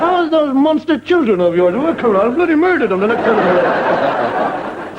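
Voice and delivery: slow, high, sing-song fake friendliness; sweetly drawn-out menace, laughing through it; mock cheery threat. Friend in a car mouthing a cheerful threat, slow and sing-song. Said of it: "You could be saying anything to them".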